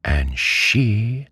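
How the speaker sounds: high, drawn-out, pointed demand; slow, insistent high questioning; sharp. A narrator's reading. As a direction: cut in sharply, pitch well up. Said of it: "said my aunt sharply".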